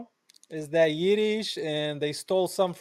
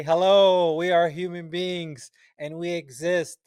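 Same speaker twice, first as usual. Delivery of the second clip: raised, emphatic hello to the world; insistent plea; 3 semitones higher, 3 dB louder than usual. Acted. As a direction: announce your existence, higher and insistent.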